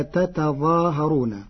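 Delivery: "تتظاهرون" with both ta sounds, slow; underlying form "تتظاهرون"; original form. Shown as a demonstration. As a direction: say the full "تتظاهرون" clearly. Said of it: "إذ أصلها".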